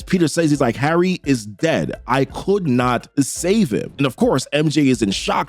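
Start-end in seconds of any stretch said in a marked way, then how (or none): 0.8-3.9 slow, lower, understated grief; tearful retelling. Retold or imitated. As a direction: deliver it heavily and slowly, lightly acting the sorrow. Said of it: "with tears in his eyes".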